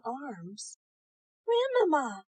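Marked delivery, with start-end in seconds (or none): 1.4-2.2 cried with surprise. Acted. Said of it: "she cried with surprise".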